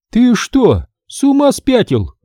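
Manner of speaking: визг, голос резко выше; возмущённо взвизгни; взвизгнула. Acted. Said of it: "взвизгнула она". (женщина взвизгивает на мастера, голос сильно выше)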